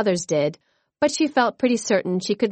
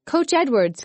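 calling out; 6 semitones higher than usual. A narrator's reading. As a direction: Coach Edwards called out high across the gym. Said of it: "as she called out".

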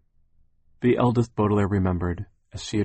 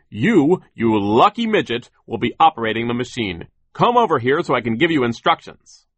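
high, loud muffled sneering boss; terrible muffled foreman; 4 semitones higher, 8 dB louder than usual. A narrator's reading. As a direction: bark orders at the lucky midget. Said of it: "he said".

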